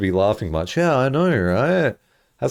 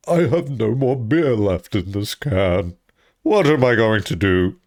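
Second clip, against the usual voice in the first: put-on slow drunk professor. Acting Layton in skit.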